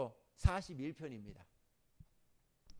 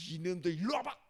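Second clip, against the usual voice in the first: mock angry call; 4 semitones higher, 6 dB louder than usual. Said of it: "뿔이 이만큼 나가지고".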